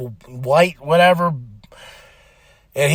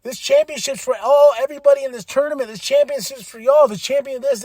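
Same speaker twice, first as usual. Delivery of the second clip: rally the crowd, sincere; a hint of a face wrestler promo; babyface promo; 9 semitones higher than usual. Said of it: "tells him, like".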